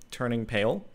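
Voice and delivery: ordinary delivery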